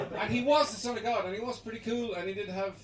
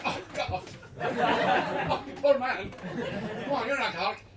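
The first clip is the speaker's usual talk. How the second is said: pitying voice; 4 semitones higher, 4 dB louder than usual. Retold or imitated. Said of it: "pitying Offaly reaction".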